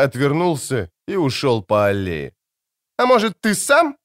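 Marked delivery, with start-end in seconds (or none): 3.0-4.0 high, sharp angry bark; snapped. A narrator's reading. Ciri snarling a taunt at the elf, angry bark. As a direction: bite the words out at him. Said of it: "рявкнула она".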